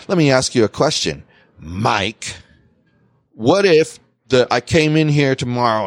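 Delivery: sarcastic boss. Retold or imitated. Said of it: "And that's how he said it, too".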